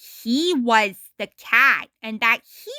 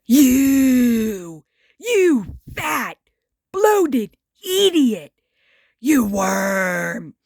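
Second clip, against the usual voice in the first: angry shouting; 4 dB louder, slower than usual. A narrator's reading. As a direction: rage at him in sputtering insults. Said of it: "shouted Ren".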